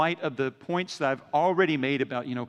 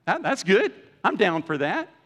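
lightly excited, pitch jumping up; a happy, eager hey all right; mock delighted agreement; pleased reaction; 3 semitones higher, 3 dB louder than usual. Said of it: "I'd be like".

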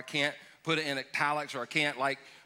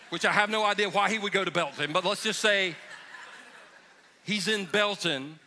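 laughing aside; 3 semitones higher than usual. Real, not acted. Joking aside about Belton.

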